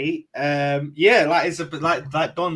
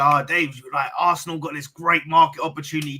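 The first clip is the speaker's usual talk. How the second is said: pompous pub voice. Retold or imitated. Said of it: "You don't have to say it that way".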